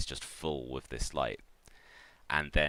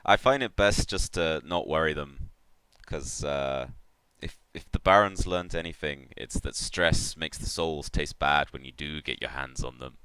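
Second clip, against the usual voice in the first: lightly voiced worldly catfish baron; easygoing rogue giving advice; Baron Vol; 4 dB louder than usual. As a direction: confide like an old soul collector, in character. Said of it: "the Baron says to Black Wolf".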